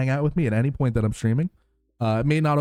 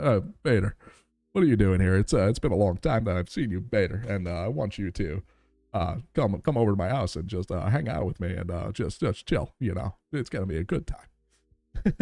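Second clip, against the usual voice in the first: light, lowered Lois voice from the cartoon, inviting Peter over; a hint of cartoon housewife Lois, casual and teasing; Lois impression; 3 semitones lower than usual. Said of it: "I'm trying to do voices for everybody".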